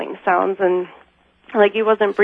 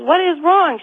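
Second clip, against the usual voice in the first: retold higher-pitched questioning; mildly exasperated mom; 8 semitones higher than usual. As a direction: lightly imitate a puzzled, put-out mom. Retold mom answering her alarmed daughter.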